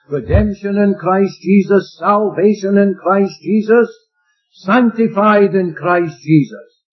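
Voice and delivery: slow emphatic phrase with stress on "Sanctified"; slow preacher emphasis; slow, deliberate. Real, not acted. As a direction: weigh each word of "Sanctified in Christ Jesus". Preacher savouring key phrase.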